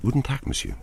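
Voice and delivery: soft, purring film star greeting; purring cat voice. A narrator's reading. Film star greets the shopkeeper, purring like a cat. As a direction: purr it like a talking cat. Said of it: "mit der Stimme einer Katze".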